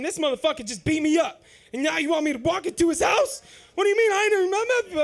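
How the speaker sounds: loud, rising outraged rant; working himself up in disbelief; incredulous outrage. Retold or imitated. Teen dreading his uncle's house, outraged.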